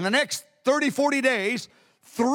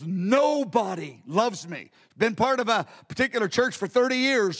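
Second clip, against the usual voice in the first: imitating her weeping; 2 semitones lower than usual. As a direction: let the words sink with her sorrow. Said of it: "she was just weeping so".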